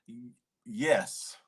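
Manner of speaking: breathy hesitant whisper; a whispered, halting yes. Real, not acted. Hesitant hushed answer.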